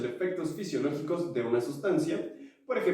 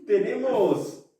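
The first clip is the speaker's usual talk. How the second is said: over eager infomercial; 7 semitones higher, slower than usual. Pretend. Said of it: "Me sentí como infomercial".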